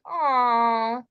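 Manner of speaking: high, drawn-out mock coo; mock cooing fans. Host imitating people swooning over Tamlin, mock cooing. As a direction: imitate people melting with sympathy. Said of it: "what people are like".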